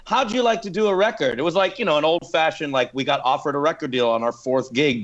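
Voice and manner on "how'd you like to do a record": imitating a gushing fan, higher pitched; retold tipsy enthusiasm, pitch lifted; drunk enthusiast. Label boss praises the band backstage after the show, gushing. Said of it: "just really drunk that night".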